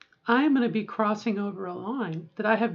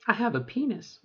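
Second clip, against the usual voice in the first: voice cracking. Real, not acted. Telling viewers about own body, voice cracking. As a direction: voice breaks mid-phrase. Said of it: "you hear my voice crack".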